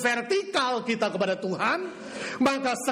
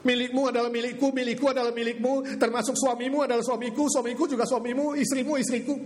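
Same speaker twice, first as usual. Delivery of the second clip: sly cult voice; 3 semitones higher than usual. Retold or imitated. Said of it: "Kita hidup seperti jemaat mula-mula".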